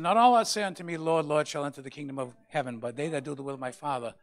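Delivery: loud, high preaching of scripture; full-force sermon shout. Acted. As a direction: thunder the verse out to the church.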